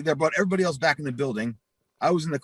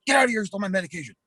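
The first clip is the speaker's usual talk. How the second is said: furious repeat; 8 semitones higher, much faster than usual. Retold or imitated. Cousin repeating to him at the door, high furious yell. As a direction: yell it again, even higher.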